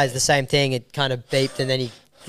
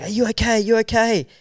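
higher, fussing, mildly worried check-in; concerned stewardess; 8 semitones higher than usual. Retold or imitated. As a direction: imitate a worried flight attendant. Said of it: "she was like".

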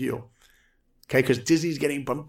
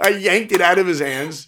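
laughing loudly through the line; 6 semitones higher, 7 dB louder than usual. Real, not acted. The speaker laughing at himself yanking the portfolio. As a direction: crack up as you tell it. Laughing at his own story.

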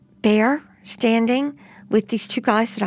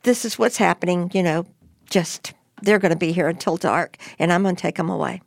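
retold calm instructions, lower pitch; 4 semitones lower, faster than usual. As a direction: lower and steady, unhurried, as Bear did. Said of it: "very calmly".

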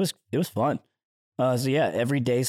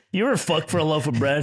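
frontier drifter voice; 4 semitones higher than usual. Pretend.

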